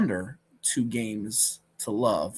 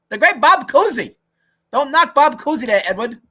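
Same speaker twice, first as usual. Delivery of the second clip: much higher, louder hammed-up protest; a hammed-up Mad Dog defending Cousy loudly; mock outrage; 11 semitones higher, 10 dB louder than usual. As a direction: play the offended Cousy fan, big.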